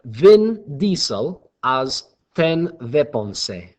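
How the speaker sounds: slow, deliberate fake German accent; mock German accent. Shown as a demonstration. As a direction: put on a clumsy German accent, spaced out. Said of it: "a German accent".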